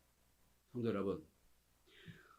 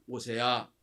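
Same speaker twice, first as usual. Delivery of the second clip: loud, firm divine command; loud, firm order to Moses, with 명령해서 stressed; commanding God; 11 dB louder than usual. Acted. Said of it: "그래서 하나님이 말씀하십니다".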